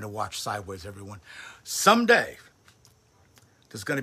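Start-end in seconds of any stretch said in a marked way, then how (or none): 1.6-2.4 wistful hope. Real, not acted.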